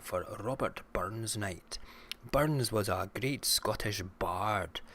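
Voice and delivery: hammed-up Scottish accent, pitch lifted in places. Shown as a demonstration. Streamer showing chat he can speak Scottish, Scottish accent. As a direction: play the purebred Scotsman with a broad Scottish lilt. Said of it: "I can also speak Scottish".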